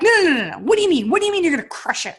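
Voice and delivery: mock disbelief, pressing him hard; retold insistent no. Pushing back at husband in hot tub.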